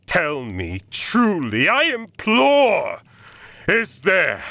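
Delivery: high, climbing desperate questions; frantic imploring. Acted. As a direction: plead harder and harder up to a cry.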